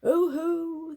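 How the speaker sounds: high, loud gleeful yell. A narrator's reading. Robbers yelling as they make off. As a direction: yell it out in triumph. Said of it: "they yelled".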